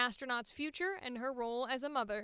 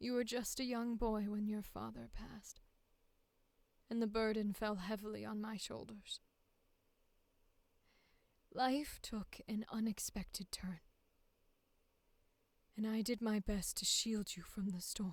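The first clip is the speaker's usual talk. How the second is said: low soft-spoken weary mother voice, quieter; 3 semitones lower, 4 dB quieter than usual. Reading audition sample dialogue as a widowed mother: low soft-spoken tired mother voice. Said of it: "I think I'm gonna go low".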